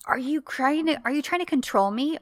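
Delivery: mock mad. Retelling Eda confronting Serkan for laughing at her, indignant. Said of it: "And she gets so mad".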